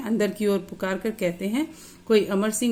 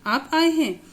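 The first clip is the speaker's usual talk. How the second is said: higher, startled disbelief; surprised; 4 semitones higher than usual. Acted. Injured boy sees the gentleman arrive, startled surprise. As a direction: catch your breath in surprise. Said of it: "एकदम surprise हो जाता है".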